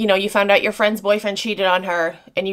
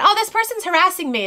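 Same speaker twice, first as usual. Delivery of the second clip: much higher whiny imitation; mock them as a whiny victim; 9 semitones higher than usual. Mocking accusers.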